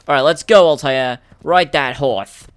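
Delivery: rally the rider, drawing out the last words; playful loud command to set off; rousing call. Pretend. Calls out to game character.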